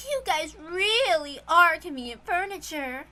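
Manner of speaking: cruel witch. Acted. Cruel witch mocks her servants.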